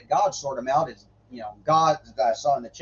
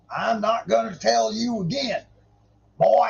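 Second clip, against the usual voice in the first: high-pitched mock redneck warning; hammed-up drunk redneck deity; drunk redneck God; 8 semitones higher than usual. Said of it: "God just turned into a drunk redneck".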